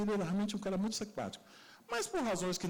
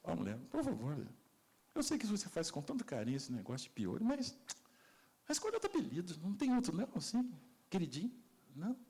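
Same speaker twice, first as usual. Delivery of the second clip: softer, gentle plea; patient husband; 3 dB quieter than usual. Retold or imitated. Husband gently asking his wife for a new nickname, softer. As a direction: ask her nicely, softly. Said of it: "ele falou".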